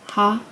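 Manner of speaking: "ha" with airy H into ah; demonstrated H sound. Shown as a demonstration. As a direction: sound out "ha" as a lone syllable. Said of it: "H sound".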